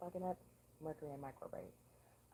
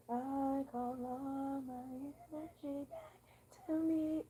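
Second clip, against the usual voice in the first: strained high notes breaking; cracking high voice; 9 semitones higher, 5 dB louder, slower than usual. Shown as a demonstration. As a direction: reach for the top and crack. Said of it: "I'll show y'all what I mean".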